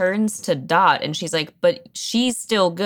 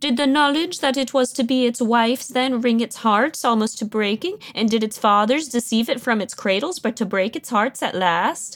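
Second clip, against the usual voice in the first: put-on babyish talk, pitched high; 6 semitones higher than usual. Retelling a scene where a character turns Bertha's sad words into baby talk voice. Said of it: "she's turning them into baby talk".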